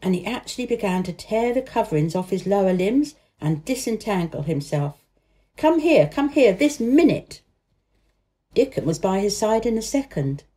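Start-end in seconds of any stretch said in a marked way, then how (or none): 5.6-7.4 high, loud, urgent command; shout. A narrator's reading. Boy shouting to his helper, urgent command. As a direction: order it urgently, insisting. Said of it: "he shouted to Dickon".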